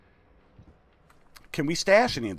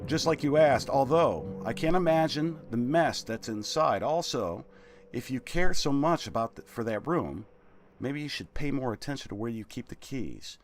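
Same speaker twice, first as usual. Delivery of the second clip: servant's letter voice. Acted. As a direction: read it as a nervous servant. Reads servant's letter aloud.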